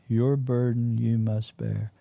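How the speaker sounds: slow, deliberate retold decree; measured solemn pronouncement. Glowing woman repeating the burden to the witness, solemn and slow. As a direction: lay it down slowly, phrase by phrase. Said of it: "That's how she said it".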